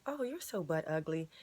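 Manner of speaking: flat, pointed put-down meant to sting; cutting insult. Shown as a demonstration. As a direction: say it like you mean the insult. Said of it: "you'll actually start to think that you're butt ugly".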